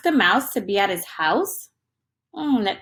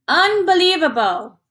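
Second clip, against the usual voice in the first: rumbling Bear; 7 semitones higher, 4 dB louder than usual. A narrator's reading. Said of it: "rumbled Bear".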